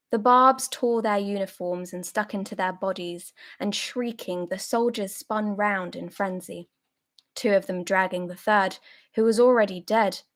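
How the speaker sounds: measured, emphatic literary reading; story narration. A narrator's reading. Reader recounts soldiers caught in the wire, as story narration. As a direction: read it out in deliberate, separated phrases. Reads the book aloud.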